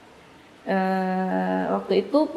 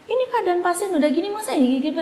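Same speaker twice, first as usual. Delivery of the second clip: much higher, faster indignant objection; retold angry protest; 9 semitones higher, faster than usual. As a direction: re-enact an outraged challenge to the medical staff. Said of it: "saya marah, saya bilang".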